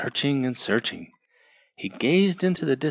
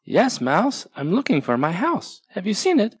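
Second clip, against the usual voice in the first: higher, eager tortoise voice; Tortoise answering; 8 semitones higher than usual. Acted. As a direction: ask hopefully.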